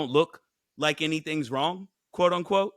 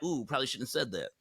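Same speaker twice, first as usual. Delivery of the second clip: softer, quicker embarrassed under-the-breath remark; embarrassed aside; 7 dB quieter, faster than usual. Retold or imitated. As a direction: mumble it like you regret saying it. Embarrassed adult mutters.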